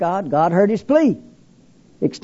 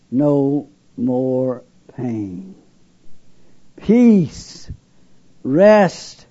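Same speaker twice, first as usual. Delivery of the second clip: hypnotic beautiful voice; 5 semitones lower, much slower than usual. Retold or imitated. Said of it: "Oh, how beautiful. How totally overwhelming, overpowering, completely hypnotic".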